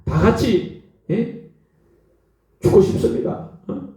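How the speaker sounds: acted-out plea to God; desperate prayer. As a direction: imitate a despairing worshipper praying. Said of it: "그렇게 막 기도를 했어요". (절박하게 하소연하는 기도 흉내)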